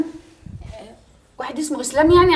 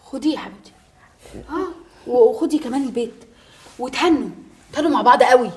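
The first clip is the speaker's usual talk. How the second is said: soft, low, bitter resignation; barely holding herself together; stunned and hurt; 4 semitones lower, 8 dB quieter than usual. Acted. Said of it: "مالك ساكته ليه؟". (صدمة ومرارة بصوت خافت)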